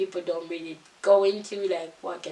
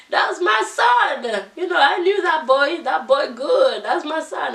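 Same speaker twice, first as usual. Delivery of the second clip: boastful absent dad; 7 semitones higher, 7 dB louder than usual. Pretend. Mocking the absent dad claiming his famous son, high loud boast. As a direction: ham up the father bragging about a famous son. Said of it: "he'll be like".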